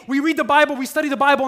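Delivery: preacher mimicking smug churchgoers, loud and high; mocking churchgoers. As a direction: send up the know-it-all believers. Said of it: "meet people who say".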